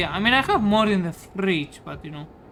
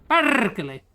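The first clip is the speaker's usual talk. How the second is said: "Perkele" called out higher, falling at the end; stress on last vowels; 4 semitones higher, slower than usual. Shown as a demonstration. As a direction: say "Perkele" as a demo of where the emphasis lands. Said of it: "with the emphasis on the last vowels".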